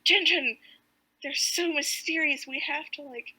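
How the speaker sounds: a bit of mock urging, punchy on the last word; eager captain. Captain urging his companion toward the llamas, lightly voiced.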